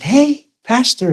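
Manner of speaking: high, drawn-out greeting call; retold call-out. Jogger hails the pastor passing on the trail, high drawn-out call.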